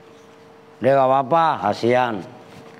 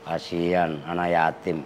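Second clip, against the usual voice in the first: mock pity; 8 semitones lower, 6 dB quieter than usual. Teasing pity for a child.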